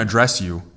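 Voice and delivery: "address" as uh-DRESS; stress on second syllable. Shown as a demonstration. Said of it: "put the emphasis on the second syllable".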